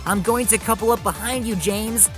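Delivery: urgent calling out. A narrator's reading. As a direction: call your plan out to a runaway. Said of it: "shouted Thomas".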